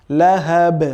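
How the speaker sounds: লাহাব with an echoing bounce on the final b; bounced last consonant in লাহাব; qalqalah. Shown as a demonstration. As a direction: release the b of লাহাব with a small bounce. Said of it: "ওই বা কিন্তু কলকলা হবে".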